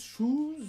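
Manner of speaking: « shoes » plus aigu, interrogatif; mot anglais. Shown as a demonstration. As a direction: dire shoes avec un long OU anglais. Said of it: "on se rapproche un peu de l'anglais". (« shoes » à l'anglaise)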